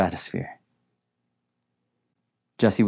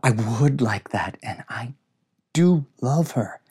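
protesting; 3 semitones higher than usual. A narrator's reading. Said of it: "Jesse protested".

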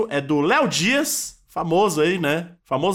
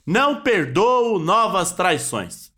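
dictating; slower than usual. Retold or imitated. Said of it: "abre aspas".

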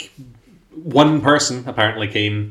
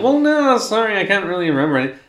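put-on confused old man; 11 semitones higher, faster than usual. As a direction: play a forgetful old prospector. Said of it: "And he's like".

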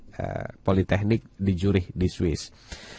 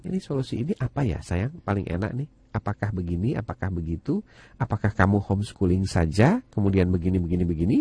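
put-on softer, tender questions to a child; reading to a toddler; 3 semitones lower, 4 dB quieter than usual. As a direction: coax the child gently, quietly. Parent discussing solutions with child.

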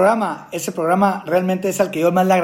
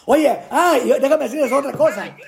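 laughing; 4 semitones higher than usual. Real, not acted. Laughs while starting the story.

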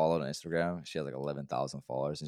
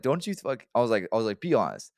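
loud, raised-pitch arguing; insistent challenge; 6 semitones higher, 7 dB louder than usual. Retold or imitated. Man challenging coworker to admit it, loud insistence. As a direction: press them hard to admit it. Retold defensive argument with coworker.

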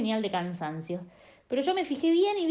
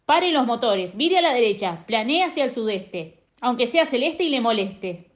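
louder barked commands, slowing at the end; shouted orders; 4 dB louder than usual. Acted. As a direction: order the pilot around through the noise. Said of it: "empezó a gritarle instrucciones". (instrucciones a los gritos)

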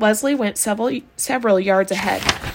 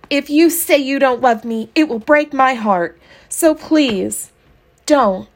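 mock lovesick plea; 5 semitones higher, 4 dB louder than usual. Mock love letter dictated.

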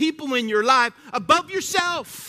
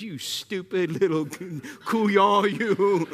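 blunt insult; slower than usual. Retold or imitated. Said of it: "That means".

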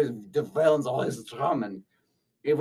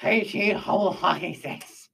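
slow clarifying repeat; 3 semitones higher than usual. Acted. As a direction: spell out H E slowly, then "double hockey sticks". Repeats slowly after a puzzled "What?.

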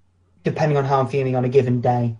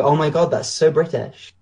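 clumsy mock American accent; lightly attempted American accent, slowing at the end; bad American accent. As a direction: badly imitate an American reacting. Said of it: "That was a bad accent".

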